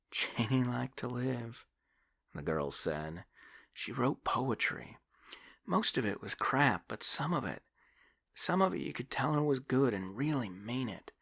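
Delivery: put-on high young woman remembering; a young woman remembering her dead friend; wistful young woman. Debbie voiced in the story.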